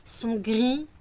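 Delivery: barely able to keep going; exhausted. Real, not acted. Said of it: "j'ai qu'une envie, c'est dormir, ça se voit à ma tête".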